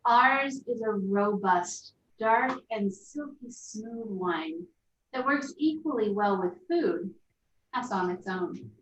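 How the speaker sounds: label read. Acted. Reading the wine label aloud.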